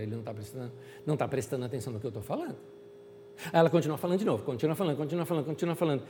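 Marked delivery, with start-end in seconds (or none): 0.0-2.6 much lower and softer, grumbling aside; muttered complaint. Acted. Woman muttering that Jesus ignores her, low grumble. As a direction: grumble it to yourself.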